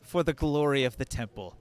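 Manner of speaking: solemn preachy priestess; lightly voiced pious priestess. Priestess lectures about temple donations.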